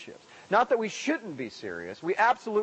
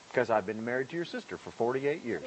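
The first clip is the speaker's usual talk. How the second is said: calm; 6 semitones lower, 5 dB quieter than usual. Pretend. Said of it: "the man calmly replied".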